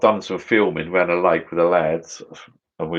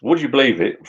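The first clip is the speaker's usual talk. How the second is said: higher but calmer "Would you believe it?"; milder disbelief; 6 semitones higher than usual. Real, not acted. Retelling the drone story to viewers, mildly amazed. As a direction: repeat it, still amazed but settling. Repeats the exclamation.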